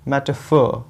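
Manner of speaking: मेटाफोर as MET-uh-fawww, r silent; alternative long ending. Shown as a demonstration. Teacher offers a second pronunciation, मेटाफोर with drawn-out faw. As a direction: linger on the last vowel of मेटाफोर. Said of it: "आर silent है".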